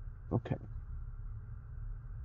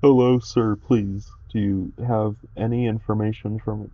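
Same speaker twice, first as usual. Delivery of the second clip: put-on polite girl voice; 4 semitones higher, 6 dB louder than usual. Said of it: "I'm like".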